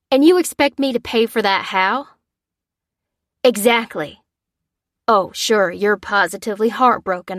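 heated, sarcastic phone argument; indignant caller. A narrator's reading. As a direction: argue with the insurer, incredulous. Father argues on phone, sarcastic.

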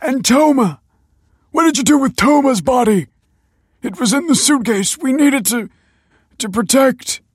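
high, loud, frantic questioning; panicked demand. A narrator's reading. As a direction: demand in a shout, then falter. Panicked father demanding missing body.

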